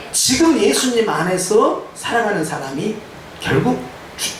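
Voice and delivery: ordinary talk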